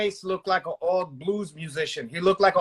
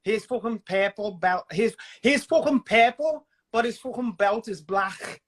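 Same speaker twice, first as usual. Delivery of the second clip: Scouse imitation. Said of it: "you have got that down to a T".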